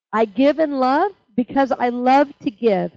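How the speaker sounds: slow and deliberate, every word weighed; slow spoken affirmation. Shown as a demonstration. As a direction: recite it like a creed, slowly. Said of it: "affirmation is this".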